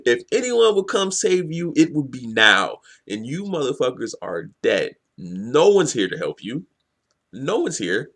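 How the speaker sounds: retold taunt with a punched start; mocking. Villain tells captives no one will save them, mocking. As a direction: rub it in, imitating a mocking villain. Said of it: "Trey Bowl laughs and he mocks them".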